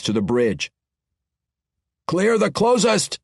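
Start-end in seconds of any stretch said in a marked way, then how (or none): 2.1-3.2 a higher, slow battle command; barked order. Acted. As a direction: bark it at the spearmen. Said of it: "he told the spear wielders".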